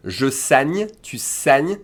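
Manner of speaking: "saigne" with an open eh, rising; accent grave demonstration. Shown as a demonstration. Teacher conjugating saigner for learners, open accent grave sound. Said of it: "you hear a accent grave sound".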